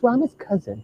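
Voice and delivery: high, very soft feminine voice; put-on female voice. Posing as his own female cousin, put-on female voice. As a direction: soften and lift it to pass as a woman. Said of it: "kinda like a female voice".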